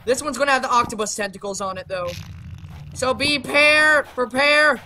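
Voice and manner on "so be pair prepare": slow, drawn-out prophecy of destruction; mock doom proclamation. Mock doom proclamation over new creature.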